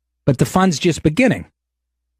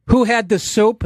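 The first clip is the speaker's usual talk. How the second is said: higher mocking echo; mocking waitress; 9 semitones higher than usual. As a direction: parrot her sneer back. Mocking waitress's questions again.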